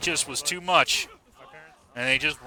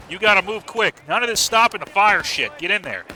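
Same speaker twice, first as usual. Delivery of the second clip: loud, higher urging to hurry; urgent shout; 4 semitones higher, 5 dB louder than usual. Real, not acted. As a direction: push them to charge now. Urging players to push in.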